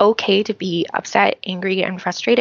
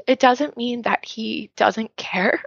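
barely voiced, slow through tears; tearful whisper; slower than usual. Real, not acted. Podcast guest fighting tears about God, whispered. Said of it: "sorry, whew, emotions".

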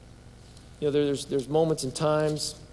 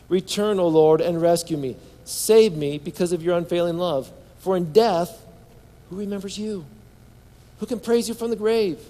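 earnest psalm recitation; pleading scripture reading; 3 semitones higher than usual. Acted. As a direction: read it as a prayer for rescue. Reads psalm aloud as plea.

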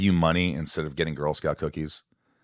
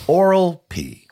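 high, loud, slow name call; slow, big showman callout; loud mock announcement; 12 semitones higher, 9 dB louder, slower than usual. Real, not acted. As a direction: boom out the silly name. Reading funny patron name.

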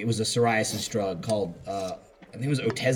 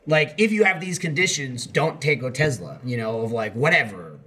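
usual speaking voice

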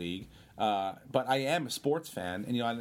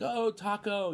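high-pitched imitation of a fan calling out; mock fan yell; 9 semitones higher, slower than usual. Fans spotting the actor at the blackout, mock yell. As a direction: call out like an excited fan, without real volume. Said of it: "You know, they're yelling".

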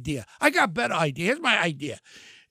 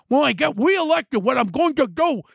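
mocking lisp; 3 semitones higher than usual. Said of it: "your teeth getting away a lot".

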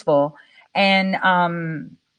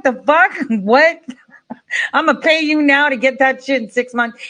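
laughing disbelief; 5 semitones higher than usual. Retold or imitated. Reacting to delivery time.

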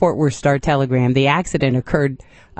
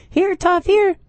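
high calling out to a dog; slower than usual. Retold or imitated. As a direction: call the dog home, pitched up high. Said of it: "you chase him out the door and you go".

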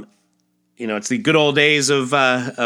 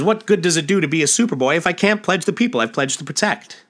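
raised heroic lament, stumbling on pledge; Superboy despairing over the town, mildly heightened hero voice; anguished hero; 7 semitones higher, faster than usual. Acted. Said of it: "If I can't save the people".

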